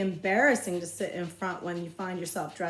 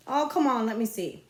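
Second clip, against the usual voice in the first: put-on louder, higher wheedling kid; pestering boy; 4 semitones higher, 5 dB louder than usual. Bully pestering Jess for his drawing, loud and high. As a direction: needle him to show the drawing.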